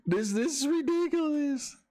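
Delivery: high, rising laugh-filled voice; breaking into real laughter; cracking up. Real, not acted. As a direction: try to talk as laughter takes over. Cracking up at memes.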